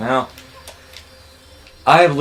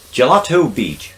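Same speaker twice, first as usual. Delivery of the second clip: announcer voice; 9 semitones higher, 4 dB louder, slower than usual. Pretend. Reading level name, announcer style.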